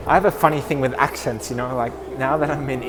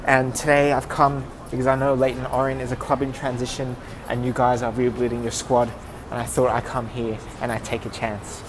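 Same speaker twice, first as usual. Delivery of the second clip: measured, earnest self-introduction to a club; practising a sales pitch, steady and sincere; rehearsed pitch. Shown as a demonstration. Footballer rehearsing his trial pitch to the club, earnest and measured. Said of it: "that's just me rehearsing for a pitch".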